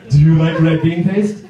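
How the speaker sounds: put-on Japanese-accented eager question; Japanese coworker. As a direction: offer the treat in a Japanese accent. Japanese coworker offers gift.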